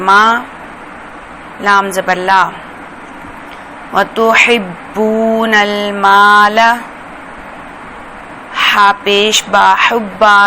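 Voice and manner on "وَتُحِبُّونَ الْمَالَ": slow melodic Quranic reading; recitation. Shown as a demonstration. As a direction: chant it gently and slowly. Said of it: "teacher recites joined phrase". (آہستہ تلاوت کا انداز)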